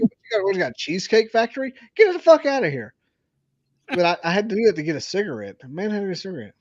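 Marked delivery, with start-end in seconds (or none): 0.0-2.9 high and incredulous, scoffing; scornful, high-pitched dismissal; mocking scorn. Real, not acted. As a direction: scoff at it, higher.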